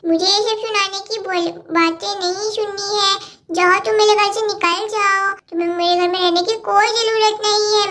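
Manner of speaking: lightly voiced bickering kids, getting cross; squabbling little girls. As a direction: play two little girls fighting over a toy set. Cartoon kids quarrel over toys.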